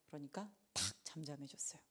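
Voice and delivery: soft hushed whisper. Real, not acted. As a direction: let it fall to a whisper. Storm calms.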